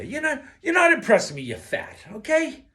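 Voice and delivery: loud, high scolding shout. Real, not acted. Scolding overweight viewers, loud and high. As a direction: shout it down at them.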